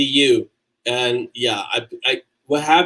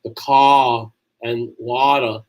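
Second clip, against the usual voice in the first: drawn-out Boston vowels; slow, stretched Boston R-less accent; 3 semitones lower, much slower than usual. Shown as a demonstration. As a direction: attempt a Boston accent with long ah sounds. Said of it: "I can't do a Boston accent".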